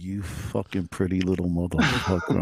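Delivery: dad cursing like a ventriloquist, lips barely moving; mad dad. Retold or imitated. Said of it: "used to talk when he would get mad".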